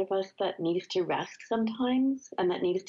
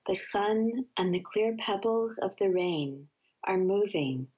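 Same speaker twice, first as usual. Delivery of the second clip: measured, unhurried poetry reading; poem reading; slower than usual. Acted. Guest reading a Mary Oliver poem on air, calm recital. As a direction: let each line settle before the next.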